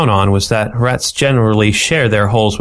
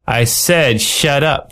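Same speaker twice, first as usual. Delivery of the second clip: menacing growl; 4 semitones higher, much slower than usual. A narrator's reading. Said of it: "with a nastier tone".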